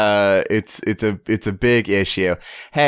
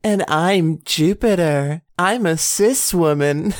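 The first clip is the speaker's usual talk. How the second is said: ironic deadpan intro; 7 semitones higher than usual. Acted.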